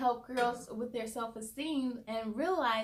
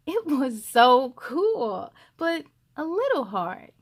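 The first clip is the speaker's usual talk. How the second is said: put-on child's reply; 9 dB louder, slower than usual. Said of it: "Jordan replied".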